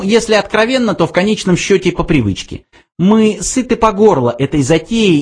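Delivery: high little mouse voice, explaining; weary mouse. A narrator's reading. Mouse explains they are fed up, high voice. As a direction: confide frankly in a high, small voice.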